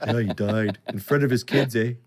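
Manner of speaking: a mock Canadian accent with eh; imitating Canadians trading grim news; a light Canadian "eh" accent; Canadian gossip. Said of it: "Every story is".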